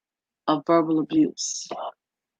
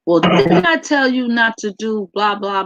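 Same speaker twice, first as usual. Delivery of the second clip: higher, scolding parent's rebuke that trails into a shrug; mock angry scolding; 3 semitones higher than usual. Parent scolding the child for misbehaving: mild mock anger. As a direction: scold like a parent who has said this before. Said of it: "speak to the child in an angry way".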